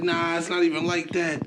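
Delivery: high-pitched mocking denial; imitating Bo. Mocking the scammer to a friend, high mock voice. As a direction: squeak out his lame excuse in mockery. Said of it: "Bo was just like".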